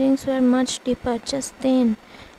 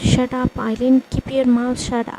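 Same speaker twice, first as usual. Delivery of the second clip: angry order; 5 dB louder than usual. Acted. Mother silences Eileen.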